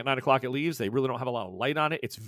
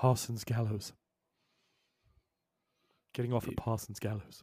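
hushed whisper, under the breath; 3 semitones lower, 5 dB quieter than usual. Voicing a character who tells the others where to get off: whispering. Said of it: "he whispers".

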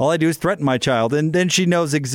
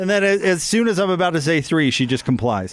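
ordinary talk, nothing marked

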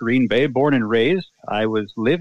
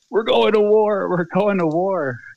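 acted-out high, alarmed holler, dragged out long; 9 semitones higher than usual. Retelling a man riding by on a bicycle: imitating someone yelling. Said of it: "just yelling".

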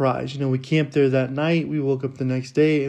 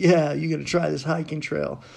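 California surfer-guy voice. Retelling what a ranger said, imitating Matthew Slater's California surfer tone. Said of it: "kind of like a California surfer guy where he's like".

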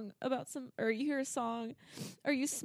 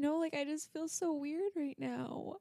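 tearful speech, crying through the words; 2 semitones higher than usual. Speaker, asked by a listener if they're going to cry, talks while crying. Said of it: "you're actually crying".

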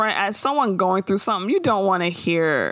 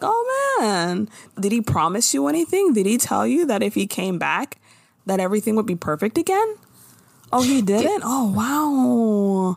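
curious, sympathetic, prying tone with 'wow' drawn out. Acting out a friend probing about a breakup: mock inquisitive concern. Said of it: "You gotta look really inquisitive".

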